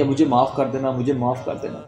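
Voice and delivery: a mild retold weeping at the grave, voice sinking; tearful plea. Mother-in-law weeping at her daughter-in-law's grave, hushed tearful plea. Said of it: "رو کے گئی ہے اور کہتی ہوئی".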